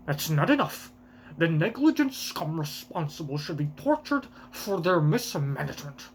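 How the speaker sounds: pompous, outraged noble with a put-on voice; celestial dragon voice. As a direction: rant like a pampered tyrant. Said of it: "I give the worst voices to all of the, uh, celestial dragons".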